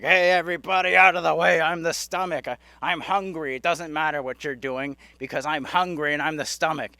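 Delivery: lightly voiced, pushy stomach mascot; loud opening call, easing into insistent chatter; talking stomach. Hungry stomach in a commercial orders everyone around, lightly hammed-up mascot voice. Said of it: "their stomach came out".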